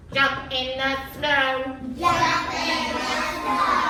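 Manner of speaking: slow, even robot words; each word flat and mechanical, slowly. Shown as a demonstration. Teacher modelling a robot voice for the class. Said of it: "say it like a robot?".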